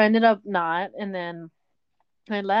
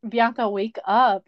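slow, drawn-out mock wake-up call; exaggerated, stretched wake-up call; imitated wake-up call; 3 semitones higher, 5 dB louder, slower than usual. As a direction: imitate someone rousing a sleeper, louder and slower. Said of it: "Not like that, but they were just, like, uh, mad".

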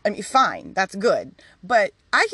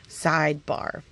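ordinary delivery

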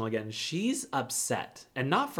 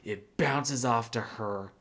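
nasty retort; 4 semitones lower than usual. Retold or imitated. Husband tells son mother deflects blame, nasty. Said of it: "he was nasty".

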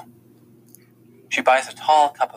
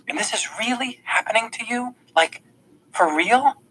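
high, breathless whispered disbelief; a hushed, awed question from a stunned girl; disbelieving whisper; 12 semitones higher than usual. Acted. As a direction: barely dare to ask it, hushed and high.

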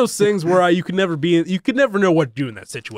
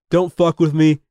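retold tough-guy threat at normal pitch; lightly acted bluster, pushed a little; mock power-trip warning; would-be badass warning; 3 dB louder than usual. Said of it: "trying to be a badass to this guard".

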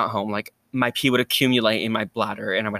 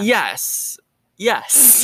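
shout; 8 semitones higher than usual. Real, not acted. Emphatic self-declaration.

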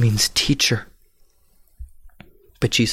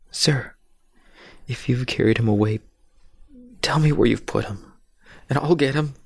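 higher, urgent plea; Mary's pleading; 5 semitones higher than usual. Acted. Mary begging the man she thinks is gardener, pleading. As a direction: beg him to tell you where.

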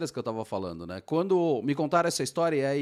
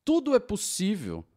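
excited; 9 semitones higher than usual. Real, not acted. Excited about childhood dreams.

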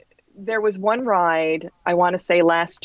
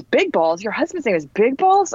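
retold disbelief; 3 semitones higher than usual. Instructor's disbelief at the name, retold.

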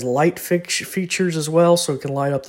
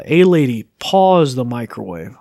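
voice command; 7 dB louder than usual. Shown as a demonstration.

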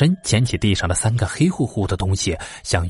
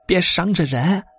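put-on higher, anxious old wife begging; pleading old wife; 8 semitones higher than usual. Wife begging her husband to put the gun away, anxious and higher.

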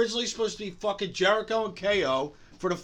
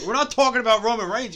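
shouting; 6 semitones higher, 8 dB louder, faster than usual. Real, not acted. Yelling at barking dogs.

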